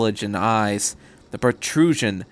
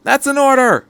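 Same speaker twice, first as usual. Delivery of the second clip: higher, louder urgent order; barked command; 13 semitones higher, 7 dB louder than usual. A narrator's reading. Miss Miyamura orders the pilot taken away, loud command. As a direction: order them out now. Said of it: "she said".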